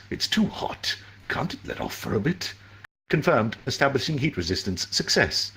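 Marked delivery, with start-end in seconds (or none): 3.1-5.5 lightly voiced AI announcement; even, detached computer voice; system voice. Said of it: "his voice was strange".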